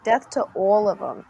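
demonstrated Jersey vowels on the line; Jersey accent. Shown as a demonstration. Showing co-host it's not Scottish, Jersey accent. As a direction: say it like someone from Jersey. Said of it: "It's like a Jersey accent".

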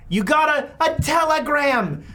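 high, drawn-out holler across the house; shouting mother. Acted. Mother telling her daughter about a telegram, shouting. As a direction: call it out as a yelling mom. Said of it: "Stop shouting".

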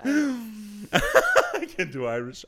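slow, high, laughing repeat; laughing through a teasing repeat; laughing echo. Real, not acted. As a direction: echo her line while giggling. Repeating partner's line, laughing.

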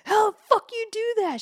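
pissed. Retold or imitated. Girlfriend furious at her friend, imitated angry demand. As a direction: demand it, hammed-up fury. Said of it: "She was so pissed".

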